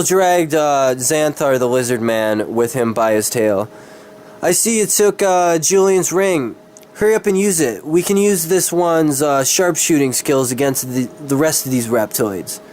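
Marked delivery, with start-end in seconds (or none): 4.4-12.6 higher, lightly voiced cocky necromancer; a hint of a smug dark ally, pitched up; Ezekiel's voice. Ezekiel's lines in the story.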